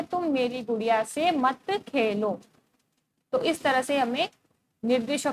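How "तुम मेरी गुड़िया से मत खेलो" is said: slow, each word laid down for copying; slow dictation for the notebook. Shown as a demonstration. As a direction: dictate so pupils can write it. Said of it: "फिर उत्तर लिखेंगे".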